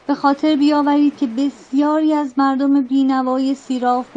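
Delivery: rallying speech. Acted. Captain rallying his crew.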